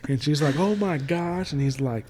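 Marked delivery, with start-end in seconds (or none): 0.6-1.5 retold shock. Retold character reacting in shock.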